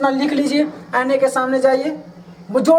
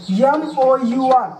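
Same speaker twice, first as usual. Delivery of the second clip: letters said slowly one by one; slow spelling; much slower than usual. Shown as a demonstration. Teacher spelling the end of humour slowly. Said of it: "teacher spells letters slowly".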